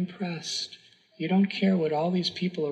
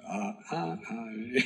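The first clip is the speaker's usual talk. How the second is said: imitating a stumbling reader; 5 semitones lower, slower than usual. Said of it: "he's saying the words wrong".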